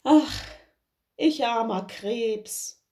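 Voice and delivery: helpless sigh. Acted. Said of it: "wusst nicht, wie er sich helfen sollte, und sprach".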